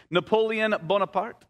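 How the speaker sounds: Napoleon Bonaparte said with a French accent, nasal on Bonaparte. Shown as a demonstration. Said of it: "with the French accent?".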